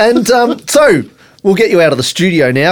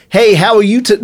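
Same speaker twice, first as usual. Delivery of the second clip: rusty go at an American accent; attempted American accent; 3 semitones higher than usual. Shown as a demonstration. Host trying it after a long time, shaky American accent. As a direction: have a tentative stab at American. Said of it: "So I'll give it a".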